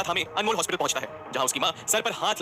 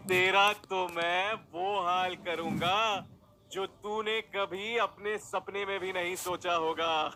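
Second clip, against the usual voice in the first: slow, menacing villain threat, dropping softer; crazed villain; 2 semitones higher, 3 dB quieter, much slower than usual. Acted. Villain slowly threatens Anmol in a crazed voice. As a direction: savour each word of the threat. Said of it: "पागलों की तरह हंसते हुए कहता है".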